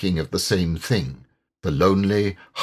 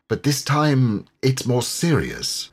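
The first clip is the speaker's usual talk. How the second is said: gravely; 5 semitones higher than usual. Acted. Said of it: "said the rat gravely".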